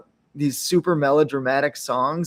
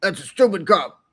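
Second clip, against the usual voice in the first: dismissive; 3 semitones higher than usual. Retold or imitated. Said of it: "and I go".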